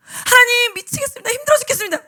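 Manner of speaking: desperate plea. Retold or imitated. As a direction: beg God for any sign. Desperate prayer. (하나님께 매달리는 절박한 외침)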